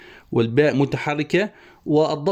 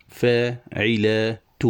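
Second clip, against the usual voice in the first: فاعلات stretched syllable by syllable, very slow; drawn-out scansion; much slower than usual. Shown as a demonstration. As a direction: chant فاعلات out slowly to count its beats. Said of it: "هنا تنتهي التفعيلة". (نطق فاعلات ببطء شديد مقطعًا مقطعًا)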